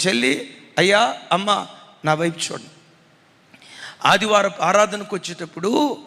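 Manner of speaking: ordinary delivery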